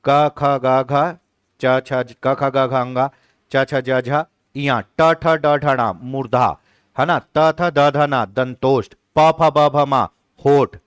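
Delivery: chanted consonant rows with their places; teacher reciting consonant groups; consonant recital. Shown as a demonstration. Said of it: "क्या करते हैं?".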